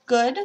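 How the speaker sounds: "good" with a rounded French uh vowel; French uh sound. Shown as a demonstration. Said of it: "the uh sound sounds like how E is pronounced in French".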